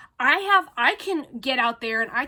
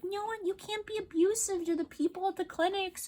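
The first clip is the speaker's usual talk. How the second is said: higher, prissy mock voice for the officials; quoting city staff in a higher sneering voice; 9 semitones higher, 5 dB quieter than usual. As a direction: parody the scolding bureaucrats, lightly. Mocking the city's emails.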